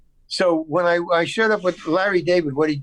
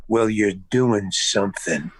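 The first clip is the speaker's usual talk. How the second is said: low, slow parting line; understated director; 6 semitones lower, slower than usual. Retold or imitated. Director leaves his actor with a note, low and measured. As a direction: imitate a director's measured last word. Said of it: "And he goes".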